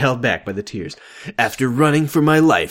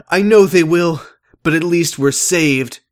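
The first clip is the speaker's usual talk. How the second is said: character voice; 9 semitones higher, 6 dB louder than usual. Acted. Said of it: "Jacob responded".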